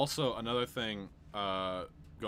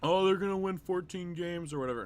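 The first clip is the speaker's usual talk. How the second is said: mocking Minnesota fan; 10 semitones higher, 7 dB louder than usual. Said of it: "from Minnesota fans".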